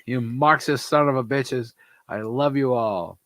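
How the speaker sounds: a hint of an Eastern European accent. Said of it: "my Eastern European accent".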